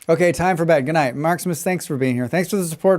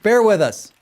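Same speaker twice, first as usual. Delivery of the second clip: mock plea; 8 semitones higher, 7 dB louder than usual. Real, not acted. Repeats joke line.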